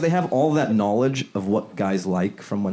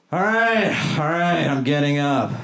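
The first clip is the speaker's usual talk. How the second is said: lazy hummingbird; 4 semitones higher than usual. Pretend. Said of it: "my impression of a lazy hummingbird".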